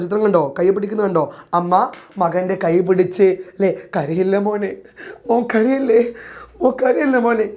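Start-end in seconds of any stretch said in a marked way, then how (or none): 4.0-7.5 comforting mother. Retold or imitated. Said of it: "എന്ന് അമ്മ ആ മകനെ ആശ്വസിപ്പിച്ചു".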